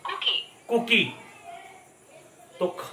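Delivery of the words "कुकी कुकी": कुकी with a plain k, higher; other way cookie. Shown as a demonstration. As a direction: say कुकी the alternative way. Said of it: "दूसरे वे में कुकी भी बोलते हैं".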